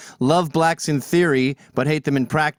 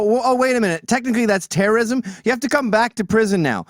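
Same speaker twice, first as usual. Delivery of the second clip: mock officials; 4 semitones higher, faster than usual. Mocking the authorities' sudden reversal.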